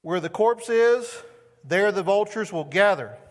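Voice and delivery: loud, high and slow; solemn pronouncement. Acted. Jesus answering the disciples, a slow loud solemn word. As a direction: declare it gravely, word by word. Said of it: "And he said".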